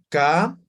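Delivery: Ka with a breath of air; aspirated ka. Shown as a demonstration. Teacher shows aspirated Ka.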